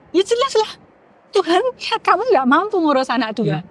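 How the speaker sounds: mildly stern retold telling-off; a touch of exasperated motherly reproach; imitated scolding mother. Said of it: "dengan nada yang lebih keras gitu".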